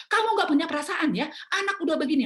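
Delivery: loud, high scolding; retold anger. Wife scolding unfeeling husband over sick child, angry. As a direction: re-enact a furious wife's accusation. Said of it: "Saya makin marah".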